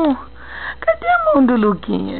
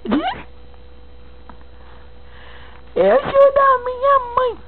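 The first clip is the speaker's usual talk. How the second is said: put-on high baby talk; 9 semitones higher, 3 dB quieter than usual. Shown as a demonstration.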